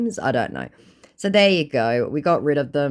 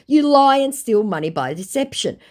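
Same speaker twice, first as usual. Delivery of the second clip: raised, high accusing voice; indignant accusation; 10 semitones higher, 5 dB louder than usual. Retold or imitated. Woman accusing a scammer of theft, indignant. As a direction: hurl it as an accusation, louder.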